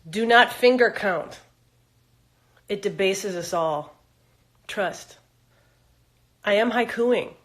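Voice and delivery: slow, measured haiku recital; poetry reading. Acted. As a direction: recite it with deliberate pauses, opening firm and loud. Reads own haiku aloud.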